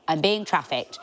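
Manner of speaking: the repeat shouted as a joke panic; mock panic shout. Repeating the fear to the audience as a mock shout. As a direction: yell it the second time in mock alarm.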